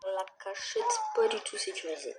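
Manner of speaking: high, whining cry; whiny despair. Real, not acted. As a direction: whine it in despair. Whiny despair repeating line.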